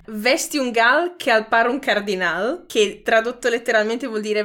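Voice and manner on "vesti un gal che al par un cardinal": Ferrarese dialect. Shown as a demonstration. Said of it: "il primo è".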